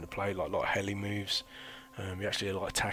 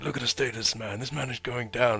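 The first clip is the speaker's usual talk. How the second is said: louder, higher mock South African officer; South African accent; 5 semitones higher, 5 dB louder than usual. Officer calling out a failing recruit, louder South African accent. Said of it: "that's my South African accent".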